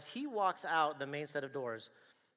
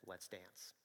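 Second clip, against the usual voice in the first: cocky challenge; 7 semitones lower, 14 dB quieter than usual. Retold or imitated. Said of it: "and said".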